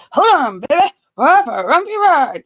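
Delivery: mocking imitation. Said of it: "please make it seem more".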